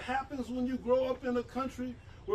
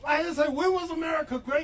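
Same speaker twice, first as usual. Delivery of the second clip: louder, higher challenge; emphatic shout; 5 semitones higher, 6 dB louder, faster than usual. Real, not acted. Minister challenges the slogan before the rally, shouting. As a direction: throw the question back at the crowd.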